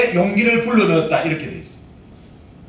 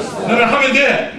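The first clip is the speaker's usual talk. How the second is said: call to repeat; 3 dB louder, slower than usual. Shown as a demonstration. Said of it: "따라합시다".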